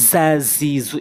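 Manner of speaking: "ঝা, ঝি, ঝু" with a buzzing z; tongue tip by the teeth, buzz "ঝা, ঝি, ঝু"; correct Za. Shown as a demonstration. Teacher modelling Za for learners, buzzing z. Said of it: "এভাবে উচ্চারণ করব".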